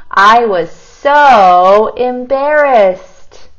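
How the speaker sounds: so drawn out slow and loud; big so. Shown as a demonstration. Teacher reading her story to the class, stretching so. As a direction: lean hard on so and stretch the line. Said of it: "look at how big I wrote so".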